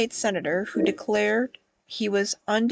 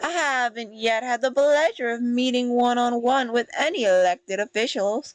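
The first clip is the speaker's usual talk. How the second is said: put-on lively, slightly older woman's voice; 3 semitones higher than usual. Voicing a woman character from a game in a role-play scene; lively, slightly old woman's voice. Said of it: "little bit old, little bit like lively, womany voice".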